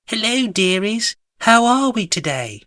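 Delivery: high, cheery singsong hello; cheery greeting. A narrator's reading. Alice greeting friends having tea, high and cheery. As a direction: greet them sweetly, pitched high.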